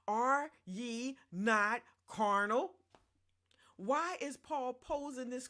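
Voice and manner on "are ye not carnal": slow, louder scripture rebuke; emphatic reading. Acted. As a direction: draw it out, louder, pointed.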